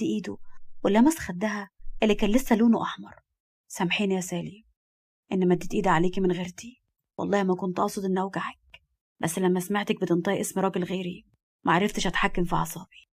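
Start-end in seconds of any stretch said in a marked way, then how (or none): 3.7-13.1 soft apology. A narrator's reading. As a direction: apologise softly and intimately. Husband apologises after hitting wife. (اعتذار بصوت هادي)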